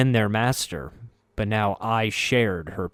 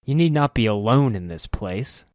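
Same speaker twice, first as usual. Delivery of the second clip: earnest, desperate plea; begging her to let him pass; pleading; 3 semitones higher, 4 dB louder than usual. Acted. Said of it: "My voice became pleading, desperate".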